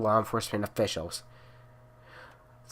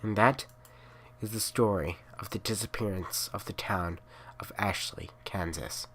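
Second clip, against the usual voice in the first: soft, lower creepy whisper; whispered ending; 3 semitones lower, 9 dB quieter than usual. A narrator's reading. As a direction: breathe out the last words. Narrator whispers story's close.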